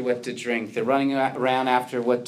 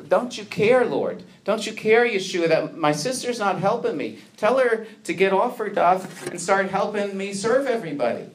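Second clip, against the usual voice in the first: exasperated complaint; 5 semitones higher than usual. Retold or imitated. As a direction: plead with Yeshua, annoyed and put upon. Martha complains to Yeshua.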